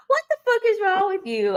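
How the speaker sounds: high, fast, shrieking disbelief; shocked outburst. Retold or imitated. Telling off her angry ex, high fast shriek. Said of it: "I'm like".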